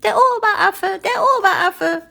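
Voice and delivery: very high, panicky squeals; acted panic, squeaky and high; frightened monkey cries. A narrator's reading. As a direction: call out anxiously as scared little monkeys. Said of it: "schrien die Affen ängstlich".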